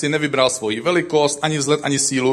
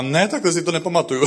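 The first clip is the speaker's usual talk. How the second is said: wife's protest, higher and quick; retold outcry; 4 semitones higher, faster than usual. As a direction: imitate a startled wife blurting her objection. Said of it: "vykřikla".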